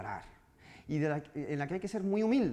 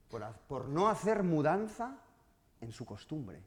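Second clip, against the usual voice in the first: poem recital. Acted. Continues the sonnet recital.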